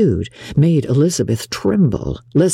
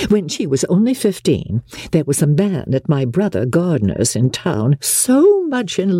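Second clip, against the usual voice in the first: lightly voiced bragging mother; 3 semitones higher than usual. Mother bragging of Jane's beauty, lightly gushing. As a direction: lightly play a mother carried away by her own boasting.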